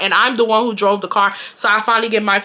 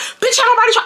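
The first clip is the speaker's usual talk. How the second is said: shrill, very high, furious screaming; 14 semitones higher than usual. Retelling an argument at a store checkout: retelling screaming at someone. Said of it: "I'm legit screaming at her".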